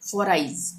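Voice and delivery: for eyes run together with the r sounded into eyes; for eyes with a linking r carried into the vowel; linked r. Shown as a demonstration. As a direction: say for eyes as one linked unit, foreyes. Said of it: "ये आ रहा है ना र".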